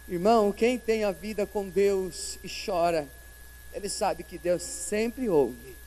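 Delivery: usual speaking voice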